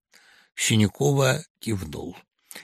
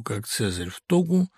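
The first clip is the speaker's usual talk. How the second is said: ordinary delivery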